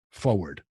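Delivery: "forward" said as FOH-ward; New Jersey "forward" without its first R; dropped R. Shown as a demonstration. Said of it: "I thought it was you go".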